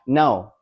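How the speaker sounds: "no" dropping firmly; "no" as a decisive downward tone; falling assertive tone. Shown as a demonstration. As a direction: say "no" with an assertive fall. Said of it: "a falling assertive tone".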